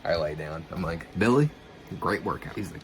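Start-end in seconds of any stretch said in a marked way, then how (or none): 1.2-2.5 breathless, gasped name; panting after a sprint; out of breath. Retold or imitated. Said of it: "I'm wheezing. I'm out of breath".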